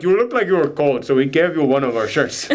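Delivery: a loose attempt at a Dutch accent; lightly put-on Netherlands accent, amused at the end; uncertain Netherlands accent. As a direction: try a vague Dutch accent, not very convincingly. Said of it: "I don't know what accent that was".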